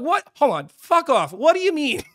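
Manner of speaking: high, loud outraged protest; incredulous high-pitched rant; retold angry yelling. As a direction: yell at someone who won't listen. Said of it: "I'm just yelling to the ether".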